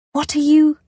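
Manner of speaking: high, loud startled cry. Acted. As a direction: cut off in shock. Pulled into closet suddenly.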